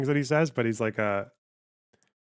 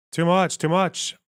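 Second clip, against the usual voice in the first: overwhelmed; 7 semitones higher, 6 dB louder, slower than usual. Real, not acted. Laughing reaction after the call.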